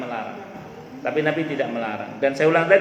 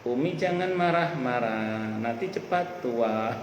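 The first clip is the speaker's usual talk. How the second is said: slow, softer singsong-like tease; child's teasing; 2 semitones lower, 6 dB quieter, slower than usual. Retold or imitated. Child teasing his angry mother, slow soft teasing. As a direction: tease lightly, drawing the words out slowly. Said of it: "Anak saya kalau ngecengin ibunya".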